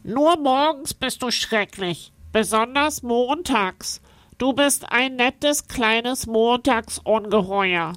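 hohe, langsame, neckende Wesenstimme; neckendes Wesen. A narrator's reading. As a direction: zieh ihn liebevoll auf. Wesen neckt Hotte. (hohe, neckende Nasenstimme)

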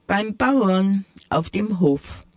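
amused. Acted. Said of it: "schmunzelte die alte Maus".

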